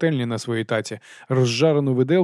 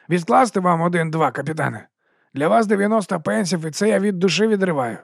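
higher, eager huckster voice; chummy sausage seller greeting the watch; fast-talking street vendor; 7 semitones higher than usual. Acted. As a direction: sell it with a grin you can hear. Narrator voices Dibbler.

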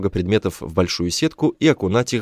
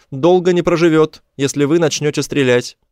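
high, loud creature voice; high alien hostage-taker; alien warning; 7 semitones higher, 3 dB louder than usual. A narrator's reading. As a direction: warn the enemy in a high alien voice. Alien warns against shooting.

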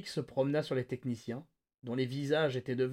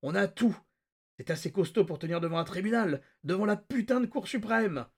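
higher, louder; triumphant; 6 semitones higher, 3 dB louder than usual. A narrator's reading. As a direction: gloat in excitement. Continuing triumph.

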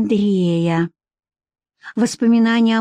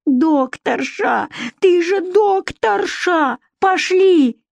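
high, drawn-out yells; urgent calling; 10 semitones higher, much slower than usual. Acted. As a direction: summon the doctor insistently. Women urgently calling the doctor along.

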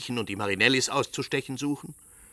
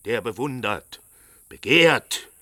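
slow, bitter outrage at the prince; rising fury; 3 semitones higher, 6 dB louder, slower than usual. Acted. Father furious that the prince admired his daughter, slow and loud. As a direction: spit the words out, slow and louder. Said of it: "der bloße Gedanke setzt mich in Wut".

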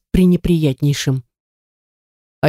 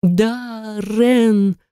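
screaming; 5 semitones higher than usual. A narrator's reading. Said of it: "закричала во всю силу своих лёгких".

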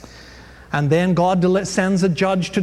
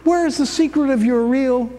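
higher, mock-pleading whine; mild whining; 8 semitones higher than usual. Delilah nagging Samson for his secret, mock whine. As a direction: wheedle like a sulky lover. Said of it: "So she whines again".

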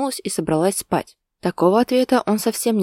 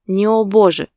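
louder, sharp cut-off; cutting off; 3 semitones higher, 8 dB louder than usual. A narrator's reading. Husband cutting off his wife's sigh, loud and firm. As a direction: shut her protest down firmly. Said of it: "присёк он".

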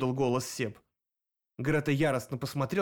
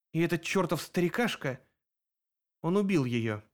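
through teeth; 3 semitones higher than usual. A narrator's reading. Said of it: "сквозь зубы произнесла она".

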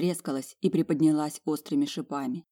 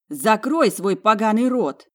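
slow, loud furious command; angry bark; 4 semitones higher, 6 dB louder, slower than usual. A narrator's reading. Talya ordering the twin silent, furious. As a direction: spit each word at her. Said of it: "рявкнула Талья".

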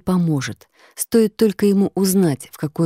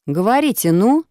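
louder, higher, impatient push; impatient stranger; 6 semitones higher, 4 dB louder than usual. Acted. Stranger on the phone urges the silent caller, impatient. Незнакомец торопит.

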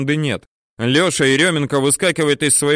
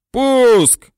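much higher, louder full yell; bellow; 12 semitones higher, 7 dB louder than usual. A narrator's reading. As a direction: roar the launch order. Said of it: "орёт Теренчук".

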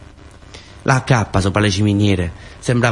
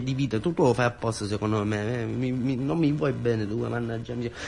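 much softer, still shaken from the scare; shaken after fright; 4 semitones higher, 8 dB quieter than usual. Acted. Scolding the friend who gave him a fright, softly shaken.

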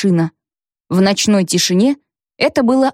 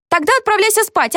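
stern order; 12 semitones higher than usual. Acted. Adult orders child to bed.

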